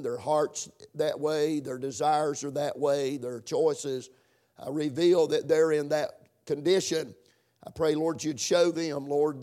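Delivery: subdued, earnest public prayer. Real, not acted. Preacher asking the Lord for guidance before the sermon, prayerful. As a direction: pray plainly and humbly, with small searching pauses.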